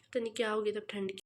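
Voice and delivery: rushed, quick words; racing through the sentence; hurried vlog chatter; talking fast. Real, not acted. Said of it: "मैं इतना fast बोल रही हूँ".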